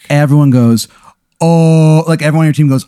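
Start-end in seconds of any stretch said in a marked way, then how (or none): 1.4-2.0 loud, raised "ooh" of a crowd; crowd reaction. Acted. The team reacts to the comeback, mock awe. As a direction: play the team reacting to a burn. Voices the whole team's reaction.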